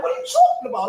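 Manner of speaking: high disbelieving squeak denying running red lights to his friend; mock baffled. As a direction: act clueless and shocked. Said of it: "I'm like".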